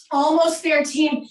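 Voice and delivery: loud encouragement. Real, not acted. Coach urging class near the end.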